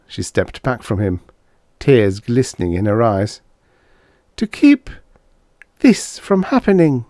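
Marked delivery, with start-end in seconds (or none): 4.4-7.0 high, louder, breathless words; panting. Acted. Dana panting an answer at Harvey, breathless. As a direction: gasp it out between breaths. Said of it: "she panted".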